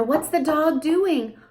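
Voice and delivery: high slow parentese; high slow singsong exchange; slow question and answer. Shown as a demonstration. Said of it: "you could do".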